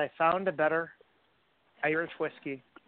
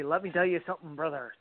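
wrestling promo quote. Retold or imitated. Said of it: "they say".

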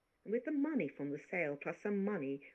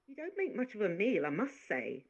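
lightly voiced chatty maid, a bit higher; a hint of a bossy French maid scolding; maid's voice; 5 semitones higher than usual. Maid Marie voiced in story.

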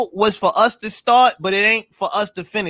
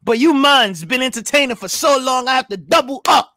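put-on reading a comment with a Caribbean accent; playful Caribbean-accented read-out; 2 semitones higher than usual. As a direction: put on a light Caribbean lilt. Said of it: "why that was a Caribbean accent".

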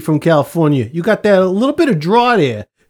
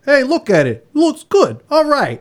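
lightly voiced construction worker, higher pitch; mock workman approving the job, pitched up; 6 semitones higher than usual. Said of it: "construction workers worked the way you want".

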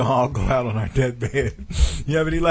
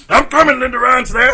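mock deathbed call; 10 semitones higher, 7 dB louder than usual.

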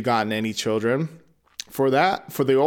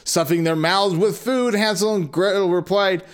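higher, animated fairy-tale narration; lively story reading; 8 semitones higher than usual. Acted. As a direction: read it like a bedtime tale for kids. Reads fairy tale aloud.

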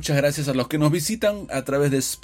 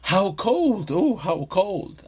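higher, drawn-out "cold" as a reaction; raised pitch, stretched for emphasis; emphatic exclamation; 5 semitones higher, much slower than usual. Shown as a demonstration. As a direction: exclaim "how cold" with feeling. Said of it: "que es la frase".

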